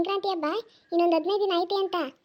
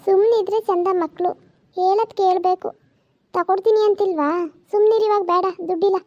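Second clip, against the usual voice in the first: scolding; 7 dB louder than usual. Acted. Grandmother scolds demanding boy.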